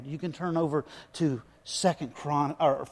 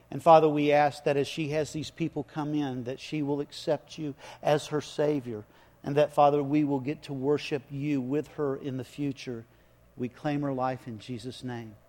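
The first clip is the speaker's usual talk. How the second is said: hushed pulpit prayer voice. Acted. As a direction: congregation prayer led from the pulpit. Continues the prayer.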